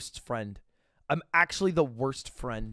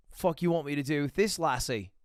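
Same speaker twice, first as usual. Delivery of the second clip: Retold or imitated. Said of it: "Weird accent today, w-, Connor".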